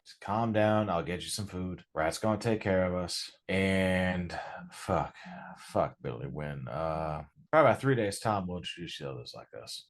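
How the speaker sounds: a hint of a rough gang elder, calmer; lightly voiced Dylan. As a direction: settle the scared kid down. Dylan calming the new kid.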